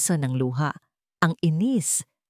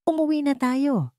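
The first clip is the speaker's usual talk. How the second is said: a hint of a hard, steady order; firm command; 9 semitones higher than usual. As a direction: say it flat-out, no hesitation. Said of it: "Ang boses ay matigas at walang kagatol-gatol". (matigas na utos, walang pag-aalinlangan)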